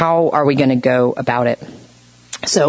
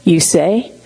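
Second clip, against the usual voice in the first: upsetting firm tone; slower than usual. Retold or imitated. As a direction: say it as a straight correction. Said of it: "The way I said".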